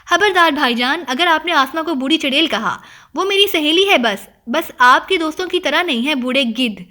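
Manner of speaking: sister snapping back at her teasing brother; a flash of indignant temper; flaring up. Acted. Sister defending her friend from her brother's teasing, flaring up. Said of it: "چمک کر بولی".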